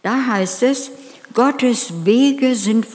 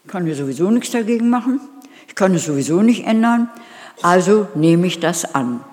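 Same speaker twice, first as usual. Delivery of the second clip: resigned grumble; 3 dB louder, faster than usual. Retold or imitated. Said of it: "das ist Resignieren".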